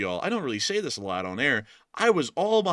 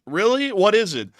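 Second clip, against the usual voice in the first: high, loud eager question; high-pitched excited questioning; eager curiosity; 9 semitones higher, 9 dB louder than usual. Acted. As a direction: ask like you can't wait. Mock eager reply.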